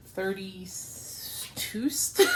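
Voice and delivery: "thirty-two st" read out letter by letter, slowly; spelled-out reading. Shown as a demonstration. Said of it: "They say three two S T".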